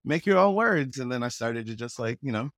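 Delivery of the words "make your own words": friends egging him on. Retold or imitated. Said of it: "And they're like".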